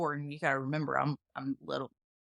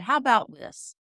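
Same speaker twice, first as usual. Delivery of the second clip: raised, higher threatening voice; menacing threat; 4 semitones higher than usual. Retold or imitated. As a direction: warn him off with the shotgun cocked. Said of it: "and he said".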